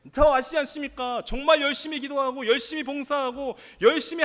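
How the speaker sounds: impassioned mock protest to God; acted complaint. Believer asks God why this valley came, complaining. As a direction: pile up aggrieved questions, preacher acting it out.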